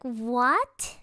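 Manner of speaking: shocked, confused what; a baffled question. Retold or imitated. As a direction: react in disbelief. Shocked reply to odd voicemail.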